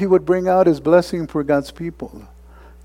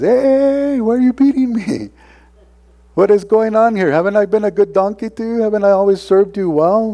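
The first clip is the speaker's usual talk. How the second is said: high-pitched, pleading donkey voice; talking donkey; 8 semitones higher, 3 dB louder than usual. Acted. Preacher voicing the beaten donkey to Balaam, high and pleading. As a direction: play the wounded donkey protesting to its master.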